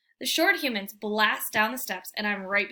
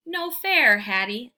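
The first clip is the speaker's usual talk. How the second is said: loud dog bark of protest; 3 semitones higher, 7 dB louder, slower than usual. A narrator's reading. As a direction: bark it out like a dog who wants to play. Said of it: "I bark".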